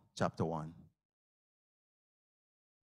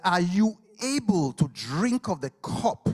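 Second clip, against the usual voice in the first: challenging; 7 semitones higher, 5 dB louder than usual. Acted. Jesus challenges loudly.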